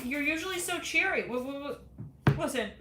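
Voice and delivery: high, puzzled caller voice; Mister Bean voice. Acted. Mister Bean asks the intern what's wrong, high and puzzled. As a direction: sound sweetly confused.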